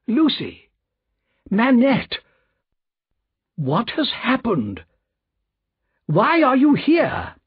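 high, drawn-out alarmed exclamations; startled cry. A narrator's reading. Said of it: "cried Mister Lorry".

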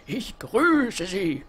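very slow unvoiced greeting; slow theatrical whispered welcome.

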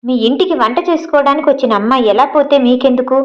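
lightly acted rude challenge; rude retort. Nandu rudely confronting Abhi, lightly acted anger. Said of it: "దురుసుగా అడిగింది".

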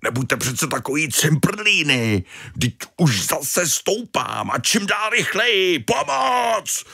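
panicking Tony to shouting. Acted. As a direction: build from pleading to a high scream. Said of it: "volal Tony z výšky". (Tony v panice, až po vysoký výkřik)

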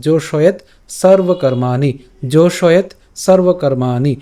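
জোশয়েত সর্বকর্মাণি slow, with long maa; measured জোশয়েত with stopped t, then drawn-out সর্বকর্মাণি; careful Sanskrit pronunciation. Shown as a demonstration. Teacher repeating the verse line for viewers, slow careful recitation. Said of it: "এরপরের লাইনে আসি".

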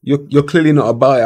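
high, loud taunting rant; mocking rant. Real, not acted. Manager taunting a player who rejected the offer, high mocking rant. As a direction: jeer at him for rejecting the offer.

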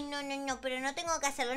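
usual speaking voice

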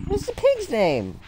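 way up high and tiny, like a cartoon critter; squeaky high voice. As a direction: squeak the question. Repeats question in squeaky voice.

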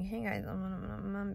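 quiet, hesitant hey guys with ums; nervous serious vlog voice. Shown as a demonstration. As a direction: sound scared of being watched. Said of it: "I'm, like, super serious".

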